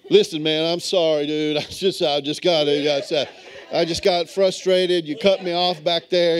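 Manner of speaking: retold meek apology; backing-down apology. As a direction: act out backing down from a confrontation. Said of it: "I had a change of heart".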